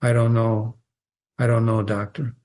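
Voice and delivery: low, held-in answer with no feeling shown; Emmeline answering the doctor, low and controlled; controlled monotone. Acted. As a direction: keep it low and even, hiding heartbreak. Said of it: "The mono-, monotone again".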